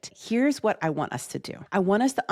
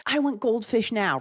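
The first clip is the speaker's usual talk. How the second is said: imitating a demanding toddler, higher; mock toddler scream; 5 semitones higher than usual. Imitating a toddler demanding a snack, mock scream. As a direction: squeal it like a toddler wanting something. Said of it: "They're screaming".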